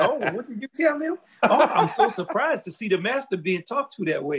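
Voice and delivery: teasing, put-on astonishment; mock surprise.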